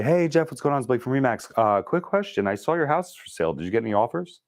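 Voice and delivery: high, easy, friendly check-in; casual real person. Shown as a demonstration. Agent calling Jeff casually, friendly and relaxed. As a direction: chat like an old friend calling. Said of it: "Be a real person".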